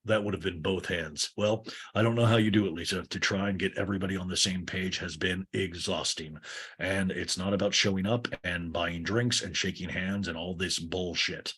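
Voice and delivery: lightly voiced low, grumbling owner; a hint of a mean boss, kept low; Greg. Mean owner complains to Lisa, lightly voiced low grumble.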